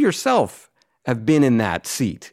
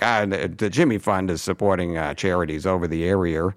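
Jerry Remy Boston R; 4 semitones lower than usual. Retold or imitated. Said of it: "Jerry Remy was the king of that".

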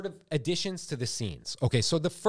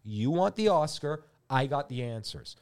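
slower and calmer repeat. Shown as a demonstration. Pitching to the director, slower repeat. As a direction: say it again slowly, letting it land. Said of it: "I'm gonna say it again".

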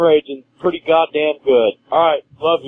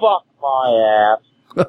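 anguished groan; 4 semitones lower, much slower than usual. Real, not acted. Caller venting in despair.

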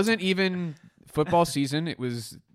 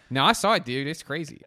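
Pittsburgh coworker; 2 semitones higher, 5 dB louder than usual. Retold or imitated. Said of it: "impression of a Pittsburgh man".

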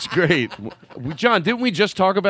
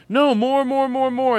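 higher, eager urging; retold urging; 8 semitones higher than usual. Host retelling how he urged the guitarist, eager. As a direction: push him on like a bandleader. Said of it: "'Cause I said".

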